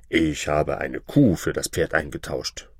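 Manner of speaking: low-pitched farmer's report. Acted. Farmer tells his wife of the trade, in low voice.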